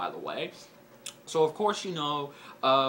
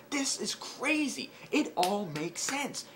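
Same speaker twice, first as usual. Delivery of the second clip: breathless higher whisper; excited whisper; 9 semitones higher than usual. Retold or imitated. Recalling freaking out over twist, awed whisper. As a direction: hush it like a secret thrill.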